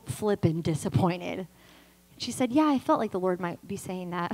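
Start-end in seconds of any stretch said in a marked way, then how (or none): 2.5-4.3 lower, offhand retelling of the counselor; imitated nonchalant reply; casual. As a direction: toss it off lightly. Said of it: "So casual".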